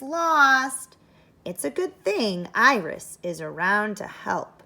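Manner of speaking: storybook read-aloud voice; bright read-aloud for young listeners; reading the blurb aloud. Acted.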